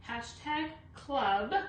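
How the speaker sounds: Hashtag club spelled out slowly and firmly; teacher stressing the keyword; slow emphatic keyword. Shown as a demonstration. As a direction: land each word of Hashtag club so viewers type it. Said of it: "you have to put the hashtag in".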